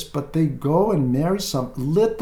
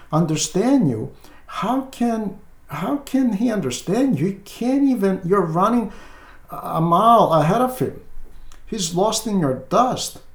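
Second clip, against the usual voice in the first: raised, incredulous pastoral rebuke; fatherly scolding; 5 semitones higher than usual. Retold or imitated. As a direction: chide her like a wise old priest, pitched higher. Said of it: "my husband cannot understand me".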